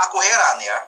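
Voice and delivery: emphatic Bible reading from the pulpit; scripture reading. Real, not acted. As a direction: read the verse out firmly to the congregation. Reads a Bible verse aloud.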